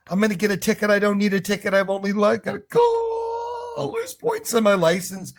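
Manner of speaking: hammed-up driver freaking out; mock panic. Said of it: "Freaking out".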